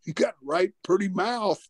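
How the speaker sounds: quoting a menacing backwoods hick; movie backwoodsman. Retold or imitated. Wrestling boss quoting a movie hillbilly's line, mock backwoods taunt. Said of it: "And the one guy said".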